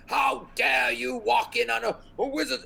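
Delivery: put-on high-pitched, outraged old-school wizard; indignant wizard. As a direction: scold an intruder in a high voice. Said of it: "he's like".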